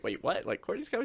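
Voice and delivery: retold disbelief, pitch jumping high at the end; mock surprise. Hearing a friend is visiting unannounced, mildly acted surprise. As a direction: replay being caught off guard, rising sharply.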